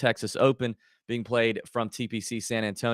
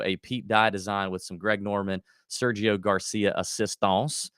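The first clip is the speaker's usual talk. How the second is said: put-on slight unplanned French accent, slowing at the end; a half-hearted fake French accent. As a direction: let a mock French accent slip into the names. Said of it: "I said that in a French accent".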